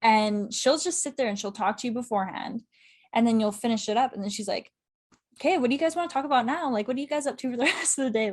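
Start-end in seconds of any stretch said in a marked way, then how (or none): 5.4-8.3 imitating an eager chatterer, higher and fast; chatty. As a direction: rattle off friendly questions, pitched up. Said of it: "she's just a chatter".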